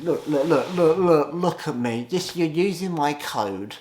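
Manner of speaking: hammed-up disbelief at fans using the code; excited mock astonishment. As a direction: play up the amazement, then slow it down. Hyped mock disbelief at viewers.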